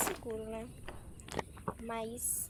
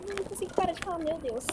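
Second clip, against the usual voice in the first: nervous babbling; 7 semitones higher, faster than usual. Real, not acted. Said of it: "Tô nervosa".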